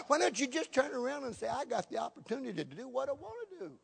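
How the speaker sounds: high, loud preacher's challenge; high-pitched sermon exhortation; fired-up preaching. Acted. Preaches with full force.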